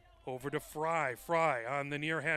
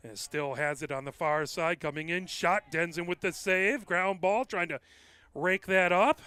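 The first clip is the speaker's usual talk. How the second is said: rising, louder call as the shot comes; excited play-by-play; 2 semitones higher, 7 dB louder than usual. Real, not acted. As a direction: build the call up with the action.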